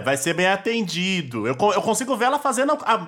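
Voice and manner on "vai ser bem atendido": slow, knowing sarcastic vai ser bem atendido; a light snide hint, drawn out. Retold or imitated. Cohost retelling her line with light sarcasm. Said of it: "E ela tá lá, ó, é".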